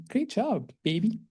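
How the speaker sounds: high-pitched, soft praise, imitating an excited mom; excited mother. Mother congratulating her child on the fellowship, imitated excitement. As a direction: coo it like a proud mother on the phone. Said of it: "she was all excited".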